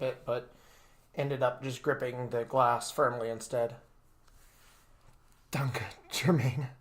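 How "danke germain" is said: slow, sniffling thanks; tearful, sniffling gratitude. Acted. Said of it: "I sniffled".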